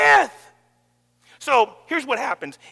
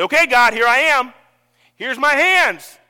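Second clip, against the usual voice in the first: offering prayer; 9 dB louder than usual. Retold or imitated. Friend's morning prayer retold.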